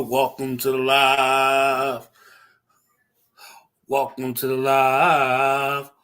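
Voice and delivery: slow, sing-song stretched greeting; drawn-out welcome. Real, not acted. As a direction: stretch out each welcome lazily.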